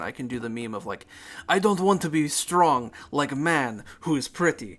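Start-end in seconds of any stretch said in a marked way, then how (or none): 1.5-4.8 loud, hammed-up Russian accent; broad comic Russian accent. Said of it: "if she has a Russian accent".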